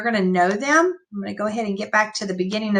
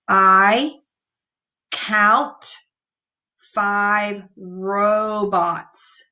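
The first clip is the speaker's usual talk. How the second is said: excited reading; much slower than usual. Shown as a demonstration. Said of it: "you wanna read that with excitement".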